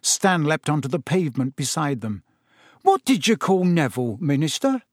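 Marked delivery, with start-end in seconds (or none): 2.8-4.8 eager cockney question, pitched up; bursting to know; excited. A narrator's reading. Stan asks the Minister about Neville, eagerly. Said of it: "he said excitedly".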